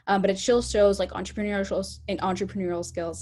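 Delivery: stumbling, restarting the word; stuttering. Real, not acted. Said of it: "I don't know why I'm stuttering so much".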